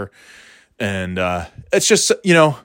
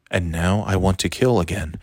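a light mock of a droning narrator; lightly voiced monotone killer narration; boring Dexter narration; 3 semitones lower, 3 dB quieter than usual. Mocking how Dexter narrates, lightly droning. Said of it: "he just talks like this".

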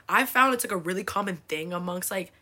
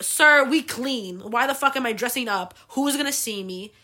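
louder, slightly higher mock indignation; exasperated retort; 3 semitones higher, 6 dB louder than usual. Mom answering dad's teasing about dressing up, exasperated. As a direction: push back, incredulous and emphatic. Mom's retort to being teased.

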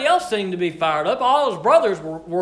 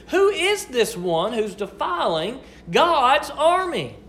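much higher, indignant, rising outrage; fired up; 4 semitones higher than usual. Retold or imitated. David shouting at the idle army, fired-up outrage. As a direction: fire up as the young shepherd demanding action. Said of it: "David was fired up".

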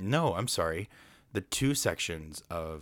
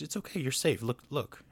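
higher, coaxing retold reassurance; reassuring; 7 semitones higher than usual. Narrator coaxing scared Tigger down, reassuring. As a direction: lightly act out coaxing someone who is scared.

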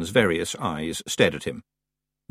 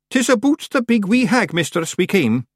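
high, louder Scots voice; brave Scots clansman; 12 semitones higher, 5 dB louder than usual. Acted. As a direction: confess bravely to the witch. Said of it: "very brave of him".

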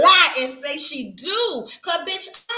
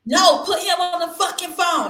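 loud higher demand; angry demand; 6 semitones higher, 5 dB louder than usual. Acted. Jealous caller demanding the boyfriend, loud and angry. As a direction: bark it at her.

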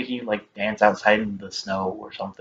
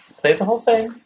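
shouting; 12 semitones higher than usual. Real, not acted. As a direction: yell it at him, insisting. Urging Tommy, louder second time.

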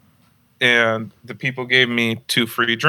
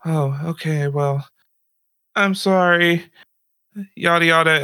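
lightly voiced mock barista; 5 semitones higher than usual. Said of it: "she's like".

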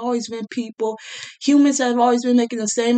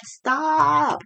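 sharp stop; 7 semitones higher than usual. Acted. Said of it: "Please stop talking like a baby".

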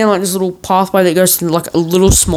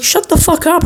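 high, exasperated snap; mock annoyed sister; 11 semitones higher than usual. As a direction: imitate the sister shutting him down. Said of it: "My sister's like".

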